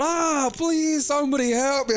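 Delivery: high, drawn-out Scottish plea; mock Scottish wail. Scottish boyfriend chased around with a two-by-four, high mock Scottish wailing. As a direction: beg for help in hammed-up Scottish. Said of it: "this thick Scottish accent going".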